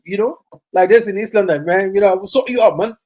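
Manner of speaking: light East London Cockney twang; Cockney accent. Real, not acted. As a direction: slip into a touch of Cockney. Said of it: "Your Cockney accent is coming back".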